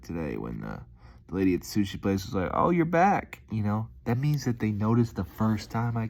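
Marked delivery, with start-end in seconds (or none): 2.5-3.4 high, bright surprise; mock-delighted greeting; pleased recognition. The sushi place lady recognizing a repeat driver, high and pleased.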